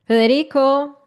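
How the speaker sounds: loud call across the room. Real, not acted. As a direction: call him over. Calling out to someone.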